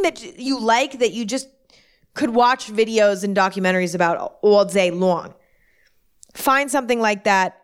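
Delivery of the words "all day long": slipping into an East Coast accent. Real, not acted. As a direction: let a weird East Coast twang creep in. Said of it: "weird East Coast accent".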